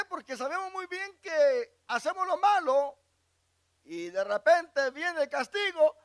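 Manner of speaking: loud, high sermon voice; fervent preaching. Acted. Preacher warning his congregation, loud and high. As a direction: drive it home from the pulpit.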